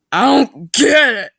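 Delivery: high, loud baffled cry; confused. Acted. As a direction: sound completely lost. Meg confused.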